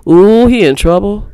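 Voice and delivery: TROUBLE ending without a clear L; teasing example, L swallowed in TROUBLE. Shown as a demonstration. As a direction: say TROUBLE like "truh-bo". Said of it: "we kinda swallow the L".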